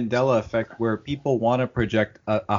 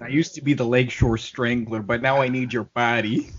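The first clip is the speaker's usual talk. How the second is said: put-on thick Chicago accent Chucky. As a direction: growl it like a Chicago tough guy. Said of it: "a really thick Chicago accent".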